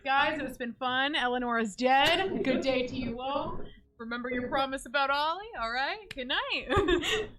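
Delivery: mock farewell. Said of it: "I was like".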